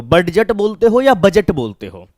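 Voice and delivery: बडजट with d sounded, then बजट with a silent d; बडजट wrong, बजट right. Shown as a demonstration. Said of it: "आप इसे क्या बोलते हो".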